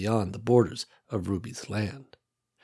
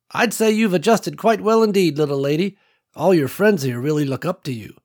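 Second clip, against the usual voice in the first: lightly voiced older country woman, a bit higher; old farm woman Ruby; 6 semitones higher, 4 dB louder than usual. Ruby telling Nicole about her land, lightly voiced old woman. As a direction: let a hint of an old rancher widow in.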